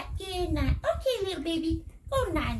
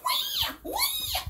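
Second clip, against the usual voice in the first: put-on squeaky toy baby cry; high baby wail. Playing the crying baby doll with a squeaky wail.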